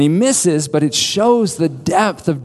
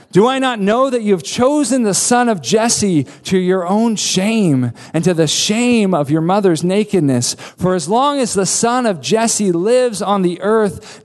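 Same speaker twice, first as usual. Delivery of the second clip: mock outburst, pitched up then sinking to the verdict; Saul; 3 semitones higher than usual. Furious father rebuking his son, understated anger. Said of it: "Saul explodes onto his son".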